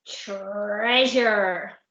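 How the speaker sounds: drawn-out, awestruck exclamation; awed gasp. Acted. Percy seeing the chest, gasped in awe. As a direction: stretch it out in amazement. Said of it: "gasped Percy when he saw the chest".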